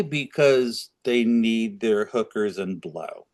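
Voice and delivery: slow, snide jab at the Democrats; snarky. Real, not acted. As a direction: drag it out with a sneer. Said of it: "said that snarky".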